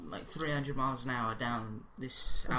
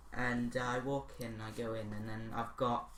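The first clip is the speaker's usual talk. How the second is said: muffled behind a hand; talking through a hand over the mouth. Real, not acted. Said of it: "You're muffling. You got your hand over your mouth".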